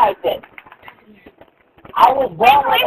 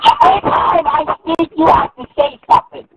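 fed-up raised voice, pitched high; angry; 4 semitones higher than usual. Real, not acted. Gamer complaining to a heckler in voice chat, angry. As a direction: shout it in real irritation. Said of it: "You're making me angry".

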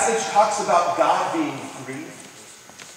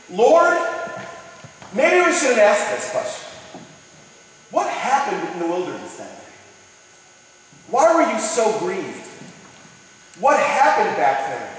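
pleading; 2 semitones higher than usual. Pretend. Disciple asks Jesus his grief.

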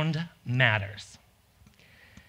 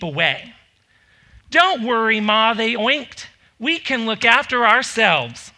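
put-on lively read-aloud voice for children; storytelling narration. A narrator's reading. Parent reading the three little pigs, lively narration. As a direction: tell the tale like a bedtime story. Mother reads fairy tale aloud.

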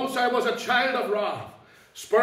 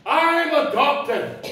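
slow, louder, higher, every word drawn out; slow dawning realisation; 6 semitones higher, 6 dB louder, much slower than usual. Real, not acted. Preacher realising to the congregation, slow and loud. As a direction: let the truth land slowly. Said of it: "all of a sudden it dawned on me".

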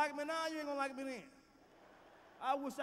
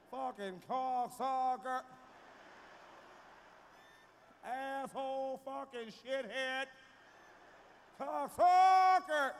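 a hint of a white man cussing; 5 dB louder, much slower than usual. Mimicking how a white man says cocksucker, slow and drawn-out. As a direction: savor each word like a white man would. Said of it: "like a white man".

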